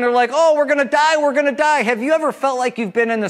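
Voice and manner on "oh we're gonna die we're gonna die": high, frantic wail of doom; hammed-up fear of drowning; mock panic. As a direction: play the terrified disciples. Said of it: "the disciples are crying".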